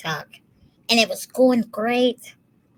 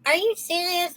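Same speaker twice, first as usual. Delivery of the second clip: retold annoyance; 10 semitones higher than usual. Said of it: "fucking angry".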